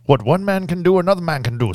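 Anthony Hopkins. Retold or imitated. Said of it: "That was my best Anthony Hopkins".

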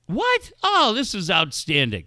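high yelp of surprise, then delight; thrilled son. Retold or imitated. Dad acting out his son hearing about LeBron, thrilled. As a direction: imitate an amazed, overjoyed son.

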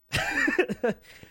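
high, breaking laugh; a burst of laughter through tears; teary laugh. Real, not acted. Streamer laughing through emotion at the anniversary.

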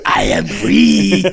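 slow, drawn-out mock South African proclamation; hammed-up South African accent; Mandela. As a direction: declare it grandly in a South African voice. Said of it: "Like Mandela".

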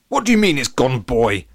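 agitated, high, loud demand; indignant blustering at a boy; Latham Lashington. A narrator's reading. Latham questions George about the trophy, agitated. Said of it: "said a visibly agitated Latham Lashington".

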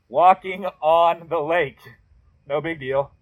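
underplay the miracle with mock nonchalance; deadpan aside. Pastor joking to the congregation, dry mock-casual understatement.

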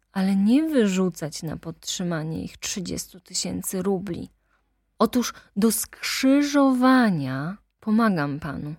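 heated attorney denouncing the nobles; ranting lawyer. Acted. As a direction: lash out at the aristocracy. Lawyer's tirade on aristocracy.

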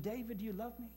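God's voice asking gently the third time; gentle question. Retold or imitated. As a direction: ask it softly, almost pleading.

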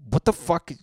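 a squeaky, incredulous what the fuck; shocked what the fuck. Retold or imitated. Comic catching himself deleting his history, high mock shock. Quoting own shocked reaction.

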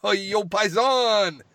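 loud, hammed-up Italian-American tough guy; imitating Sal. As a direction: holler it like a bad actor. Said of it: "let's look at Sal's acting talent".

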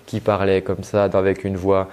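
a hint of a dull cartoon drone, dropping low; low, listless, boring voice; Droopy. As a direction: lightly imitate a boring, monotone cartoon character. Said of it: "comme le personnage Droopy".

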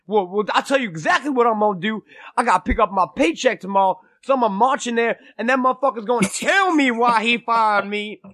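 lightly imitated indignant friend; mock determined rant, pitch climbing; Jesse. Friend vowing to confront his boss, mildly hammed-up indignation. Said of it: "I was pissed".

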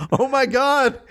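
high-pitched astonished exclamation; squealed realization, on the edge of laughter; amazed delight. Real, not acted. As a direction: burst out in real, delighted disbelief. Listener's amazed laughing outburst at story.

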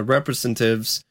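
"representatives" short a syllable, like "represen-tives"; slurred tail on "representatives"; botched pronunciation. Real, not acted. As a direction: swallow the "ta" in "representatives". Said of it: "God, that damn fucking word".

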